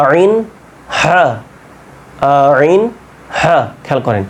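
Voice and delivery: "আইন" squeezed from mid-throat, "হা" breathy from the throat; teacher drilling Arabic throat letters; Arabic ain and ha. Shown as a demonstration. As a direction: model "আইন" and "হা" from the middle of the throat. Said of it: "গলার মধ্যখান হতে উচ্চারণটা হবে আইন".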